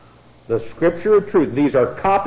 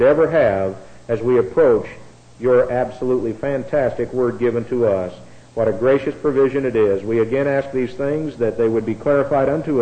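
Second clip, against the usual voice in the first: closing prayer. Real, not acted. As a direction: lead the congregation steadily in prayer.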